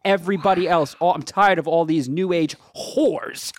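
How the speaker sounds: mock old-lady rant. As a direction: play her fed-up outburst. Old lady's rant, acted out.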